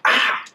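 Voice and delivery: short retold yell of pain; brief, loud imitated scream; mock pained scream. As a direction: cry out as if punched in the arm. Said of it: "he, like, screamed".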